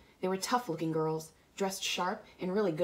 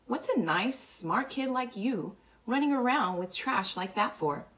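Cherry character; 6 semitones higher than usual. A narrator's reading. Cherry voiced in narrated dialogue.

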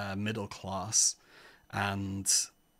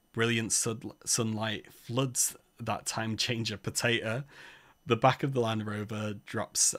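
measured read-aloud narrator voice; story narration. Acted. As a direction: read the adventure out evenly to listeners. Reads adventure story aloud.

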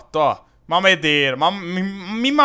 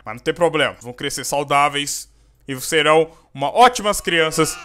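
normal talking voice

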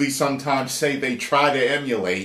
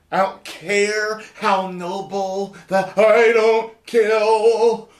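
mock Batman voice; 6 semitones higher, much slower than usual. Mocking Batman's no-kill rule.

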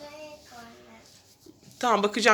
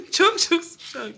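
slow drawn-out; 7 semitones higher, much slower than usual. Acted. Hot-cold game, drawn-out hint.

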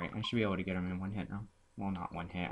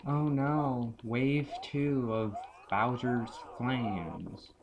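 mock dread; 4 semitones higher, much slower than usual. Pretend dread at the next wave.

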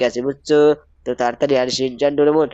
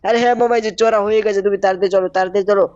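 put-on high, bright child voice begging uncle to hurry; high-pitched cartoon boy urging his uncle on; cartoon kid nephew; 5 semitones higher than usual. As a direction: play the eager little nephew.

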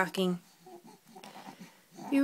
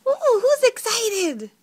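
high, loud and slow, laughing through it; 8 semitones higher, 8 dB louder, slower than usual. Real, not acted. Mother laughing with her hyper baby, high and slow.

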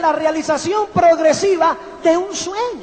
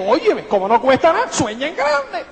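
riéndose mientras lo cita; burla risueña. Retold or imitated. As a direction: cuenta su ocurrencia con risa. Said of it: "Y ella dijo". (citando con risa entre dientes)

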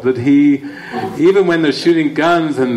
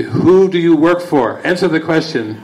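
higher, pushier demand from a captor; demanding interrogator; 3 semitones higher than usual. Retold or imitated. Captors press the drugged hero for answers, higher and insistent. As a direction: press him hard for the answer.

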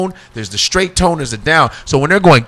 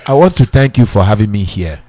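lightly voiced dad, lower; a hint of his father's polite speech; imitating his dad thanking the host; 5 semitones lower than usual. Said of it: "I can talk like my dad".

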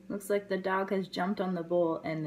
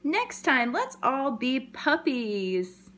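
higher, slower cheerful suggestion; puppy voice; 4 semitones higher, 3 dB louder, slower than usual. Acted. A hint of puppy suggesting to kittens, slow and cheerful. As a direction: propose it brightly. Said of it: "He's saying".

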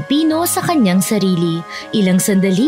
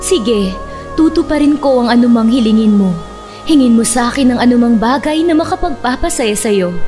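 fairy voice. Acted. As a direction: grant the wish with a lift. Fairy grants a wish.

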